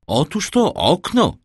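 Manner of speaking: high-pitched exclamation; exclaiming. A narrator's reading. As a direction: cry out with the pitch leaping up. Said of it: "zawołał imć Pastrini". (wołając, z przejęciem)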